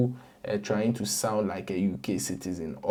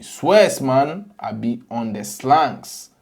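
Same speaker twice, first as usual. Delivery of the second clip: mock London slang; 2 semitones higher, 4 dB louder, slower than usual. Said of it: "my U K accent drop".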